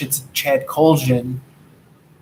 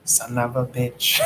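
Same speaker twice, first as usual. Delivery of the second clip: Arnold Schwarzenegger impression; 2 semitones lower, 6 dB quieter than usual. Retelling how the podcaster says it, in a light Arnold Schwarzenegger accent. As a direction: lightly imitate Arnold drawing out the curse. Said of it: "The way he says it".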